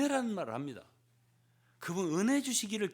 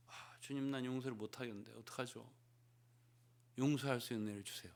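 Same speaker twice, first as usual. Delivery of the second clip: much softer, pleading; a hushed plea to the Lord; soft prayer; 4 semitones lower, 8 dB quieter than usual. Acted. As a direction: murmur a helpless prayer. Believer praying for forgiveness.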